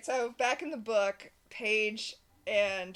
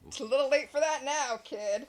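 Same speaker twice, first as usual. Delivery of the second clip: noir tough guy; 4 semitones higher, 5 dB louder than usual. Retold or imitated. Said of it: "they're like".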